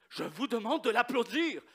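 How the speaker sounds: stern professor ordering applause; firm demand. Retold or imitated. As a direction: insist the class applaud. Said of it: "il chicane les étudiants".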